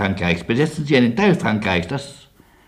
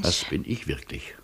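soft whisper; 6 semitones lower, 7 dB quieter than usual. Acted. Quiet sincere reply to landlady.

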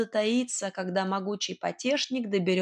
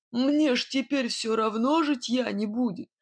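grim resolve; 2 semitones higher than usual. A narrator's reading. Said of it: "с мрачной решимостью сказал тот".

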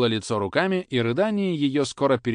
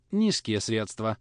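ordinary delivery

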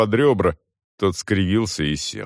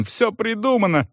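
angry shouting; 11 semitones higher than usual. A narrator's reading. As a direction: rant at the commission. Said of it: "заорал Салон".

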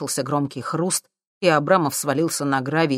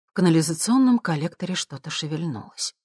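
usual speaking voice

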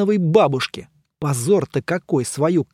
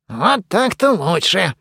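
smirking; 3 semitones higher, slower than usual. A narrator's reading. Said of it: "усмехнулся Мумий".

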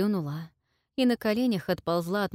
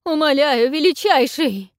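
much higher, loud desperate cry; strained cry; 8 semitones higher, 10 dB louder than usual. A narrator's reading. Queen submits to the dragon, strained cry. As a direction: cry out on the edge of breaking. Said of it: "с надрывом воскликнула королева".

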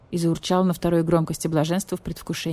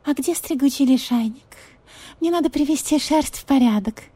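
pampered cat; 8 semitones higher than usual. Acted. Marquise cat asks vulture to comb her, high spoiled voice.

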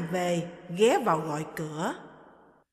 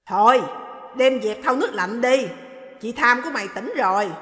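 put-on louder, brisk old lady voice; dismissive orders to the maid; stern mother-in-law; 2 semitones higher, 6 dB louder than usual. Mother-in-law ordering the maid away, loud and curt.

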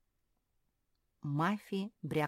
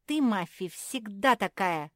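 louder, sharp outburst; blurted reproach; 5 semitones higher, 9 dB louder than usual. Acted. Marsia scolds Mafi, loud blurted reproach. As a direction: fire the accusation at her. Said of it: "выпалила Марсия".

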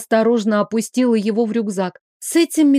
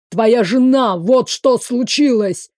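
agitated shout; slower than usual. Acted. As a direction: blurt it out in alarm. Frantic mage answers the question.

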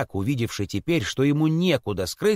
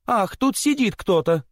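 mild frightened cry; 8 semitones higher than usual. Acted. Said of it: "закричали все и в испуге".

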